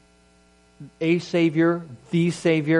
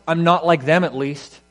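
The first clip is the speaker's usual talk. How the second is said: self-righteous; 3 semitones higher, 5 dB louder than usual. Pretend. Mock self-righteous comparison.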